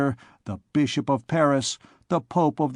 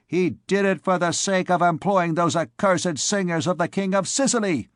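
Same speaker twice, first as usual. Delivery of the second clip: put-on sharp old woman; 5 semitones higher than usual. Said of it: "cried an old woman sharply".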